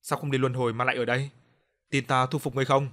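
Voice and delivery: a touch of stern, commanding; lightly voiced ghost-hunter laying down the law. Narrator scolding the ghost girl, mildly stern. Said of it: "Tôi nghiêm nghị nói".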